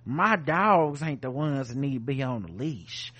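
mock Southern racist accent. White woman to George about her dogs, racist Southern accent. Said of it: "Why do all racist people have the same accent?".

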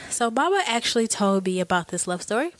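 stuffed-up nose from a cold; blocked nose. Real, not acted. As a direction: talk through a blocked nose, sick. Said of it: "because you're sick, it sounded like Baba".

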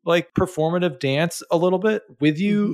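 mock-rant it back at her; retold anger. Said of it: "but I was very angry".

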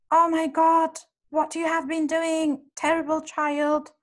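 put-on loud, high-pitched scolding of a child; harsh scolding. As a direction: snap at the boy in exasperation. Harsh mother scolding her son.

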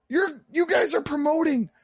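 exasperated high voice. Retold or imitated. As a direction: squeak it out in disbelief. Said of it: "and I'm like".

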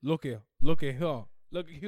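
"here" said like "hyuh"; Atlanta pronunciation. Shown as a demonstration. Testing the sound for cohost, "here" as "hyuh". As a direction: repeat "Look at here" run together, R dropped. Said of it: "Here ends in R E".

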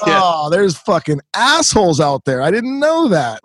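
a hint of a let-down kid, slow; a kid discovering the world is mean; disillusioned kid. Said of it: "you're like".

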